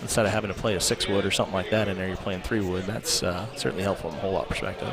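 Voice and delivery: loud. Real, not acted. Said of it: "now you guys asked for the volume".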